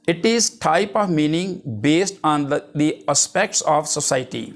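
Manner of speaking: reading a definition out slowly, word by word; slow dictation. Acted. Teacher dictating a definition to the class, slow and deliberate. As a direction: dictate it so students can write it down.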